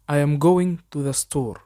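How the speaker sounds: very slow, careful English for learners to copy; slow dictation pace; slow model sentence. Shown as a demonstration. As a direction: spell it out slowly so students can repeat. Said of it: "حاول تقلدني".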